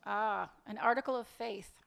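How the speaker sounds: dry mock admiration; sarcastic. Woman doubting her lover's promise to leave, sarcastic. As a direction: answer him with pointed sarcasm. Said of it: "There's no reason to be sarcastic".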